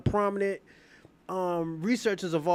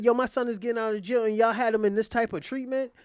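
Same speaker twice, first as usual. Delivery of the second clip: higher-pitched, quick retold outrage; indignant scolding; 5 semitones higher, 4 dB louder than usual. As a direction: act out an outraged father laying into staff. Acts out father's outrage.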